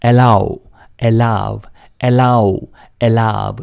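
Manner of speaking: એલાવ said as e-laav, stressing laav; teacher drilling એલાવ; allow drill. Shown as a demonstration. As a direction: repeat એલાવ carefully for learners. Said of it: "એલાવ બોલાય છે".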